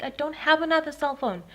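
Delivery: retold protest. Victim answering intruder's demand, high loud protest.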